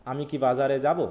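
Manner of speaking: "আমি কি বাজারে যাব" with a rise at the end; question intonation. Shown as a demonstration. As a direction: ask it, stretching "যাব" upward. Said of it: "ইন্টোনেশনেই বলে দিবে যে এটা একটা কোশ্চেন". ("যাব" টেনে সুর তুলে প্রশ্ন)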